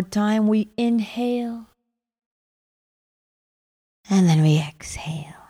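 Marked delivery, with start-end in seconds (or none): 4.1-5.4 right in your ear. Acted. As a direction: whisper it close and gentle. Breathing cue in meditation.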